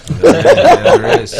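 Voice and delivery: high, slow laughing reply. Real, not acted. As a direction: stretch it out laughing. Laughing at the land tip.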